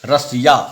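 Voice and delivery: रसिया with the S made against the palate; palatal S. Shown as a demonstration. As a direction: say रसिया with the tongue helped by the palate. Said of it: "जीभ को तालु में स्पर्श करने".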